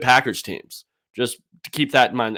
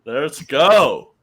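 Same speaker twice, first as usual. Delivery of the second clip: laughing cheer; 3 dB louder than usual. Real, not acted.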